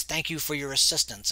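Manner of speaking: flat, emotionless thanks; deadpan. Acted. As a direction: say it dry and without feeling. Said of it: "it's more in a deadpan, um, voice".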